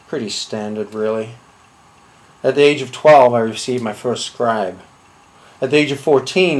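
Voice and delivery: low, measured deadpan storytelling; deadpan confession. Acted. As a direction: recount the absurd as perfectly ordinary. Deadpan absurd childhood confession monologue.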